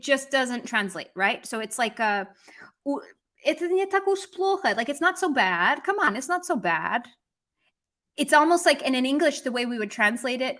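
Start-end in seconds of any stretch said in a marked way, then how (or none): 3.5-7.1 "not so bad" in a lilting, swooping tune; coaxing intonation. Shown as a demonstration. Teacher showing learners the English equivalent of уж, coaxing intonation. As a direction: give "it's not so bad" a coaxing rise and fall. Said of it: "See how I'm doing that intonation".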